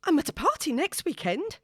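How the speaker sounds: high, loud sudden blurt; out before she can stop it; blurting an invite in panic. A narrator's reading. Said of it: "she blurts out".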